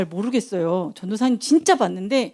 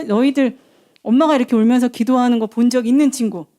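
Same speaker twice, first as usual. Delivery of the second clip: ordinary delivery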